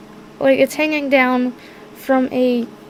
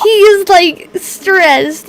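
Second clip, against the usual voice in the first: laughing through words; 6 semitones higher, 7 dB louder, much slower than usual. Real, not acted. Player cracking up mid-description.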